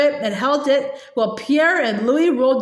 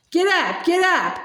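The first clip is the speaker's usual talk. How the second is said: higher-pitched urging at normal volume; restrained repeated shout; 5 semitones higher than usual. A narrator's reading. Boy urging his stalled steers to pull, restrained shout. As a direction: urge the team on with a contained call. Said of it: "Almanzo kept shouting".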